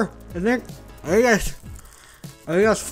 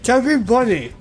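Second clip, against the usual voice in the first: mumbled through stuffed cheeks; mouth full; 5 semitones higher than usual. Real, not acted. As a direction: say it round a mouthful.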